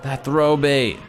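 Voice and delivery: drawn-out, high, amazed "Oh my God"; mock awe. A streamer mocking viewers who are amazed by a throw bait. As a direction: gush over the throw bait like a dazzled fan. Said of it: "Everybody's like".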